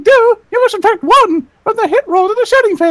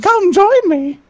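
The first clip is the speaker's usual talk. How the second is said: lightly voiced cartoon mouse beckoning; a hint of sinister Mickey; mock-eerie "Come join me"; creepy Mickey invitation; slower than usual. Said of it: "I used to do Mickey Mouse impressions".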